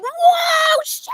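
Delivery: high, stunned exclamation imitating the cast; imitating a stunned gasp of awe; amazed cast reaction. Castmates reacting to Louise's big note, high stunned exclamation. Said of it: "and everyone's just like".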